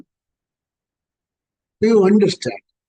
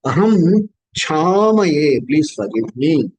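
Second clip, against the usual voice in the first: humble plea; 4 semitones lower, slower than usual. Acted. Chanted plea then translation.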